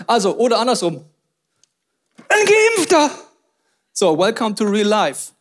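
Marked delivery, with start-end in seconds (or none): 2.3-3.1 mock shock. Mock shock, other side.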